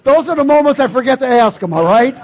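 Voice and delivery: loud, laughing through the words. Real, not acted. Preacher laughs loudly to congregation about forgetting God. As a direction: crack up at your own confession.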